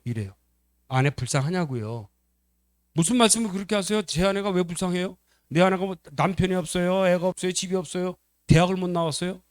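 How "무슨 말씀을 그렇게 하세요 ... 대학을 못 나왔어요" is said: higher-pitched offended protest, acted; indignant. Husband objects to being asked if he pities wife, indignant. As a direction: fire back rhetorical questions.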